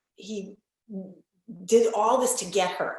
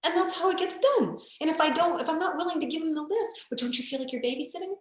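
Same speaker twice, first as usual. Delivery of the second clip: emphatic; 10 semitones higher than usual. Retold or imitated. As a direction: tell the client straight, forcefully. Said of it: "I'm like".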